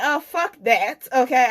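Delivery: defiant rebuttal; indignant. Real, not acted. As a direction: push back hard, offended. Indignant retort.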